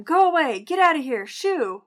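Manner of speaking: sharp dismissive orders, half-strength yell; retold yelling. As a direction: shoo someone off like a fly, toned down. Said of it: "Started yelling at him and telling him".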